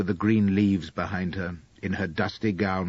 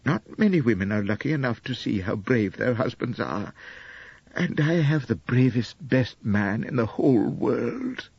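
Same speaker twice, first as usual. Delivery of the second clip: a gentle hint of a doting young wife; lightly voiced young wife, adoring; 3 semitones higher than usual. Narrator voices Elspeth.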